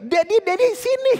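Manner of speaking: put-on the child calling Daddy into the room in a high, excited voice. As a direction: squeak it like an eager little kid. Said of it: "anak saya udah begini".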